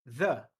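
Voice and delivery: The as a puff over the tongue then a short e; TH breath into e; th sound. Shown as a demonstration. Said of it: "o soprinho com o ezinho depois".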